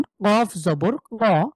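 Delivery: কফ জবর ক very slowly spelled out; slow spelling. Shown as a demonstration. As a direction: spell each sound slowly like a teacher. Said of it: "তাহলে দেখেন".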